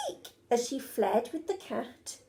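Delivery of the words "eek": yelp. Acted. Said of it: "Betty yelled".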